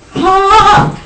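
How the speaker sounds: loud, high burst of "Ha!"; sudden loud cry; sharp exclaimed "ha". Acted. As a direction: punch out a theatrical "Ha!". Mock drama after saying temptress.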